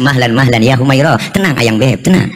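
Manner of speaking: low-pitched, tender soothing; unhurried low reassurance; calming a wife. Acted. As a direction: gently talk an angry wife down. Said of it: "Rasulullah nggak marah, pegang tangan".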